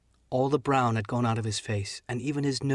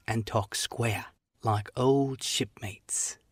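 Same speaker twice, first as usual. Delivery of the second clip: put-on pleading old shipmate. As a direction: coax him like an old friend, slowly. Black Dog bargains.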